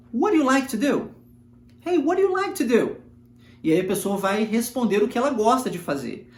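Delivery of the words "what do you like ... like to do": "what do you like to do?" run together as "whaddaya like ta do"; linked-up question. Shown as a demonstration. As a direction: join the words, let them blend. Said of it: "Consegue repetir?". (palavras ligadas em "what do you like to do?")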